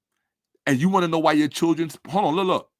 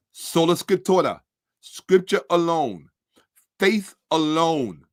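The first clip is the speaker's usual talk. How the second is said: slow recitation; slower than usual. Shown as a demonstration.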